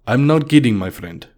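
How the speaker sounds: a Russian insisting to a doubter; Russian accent. Acted. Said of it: "in a very heavy Russian accent".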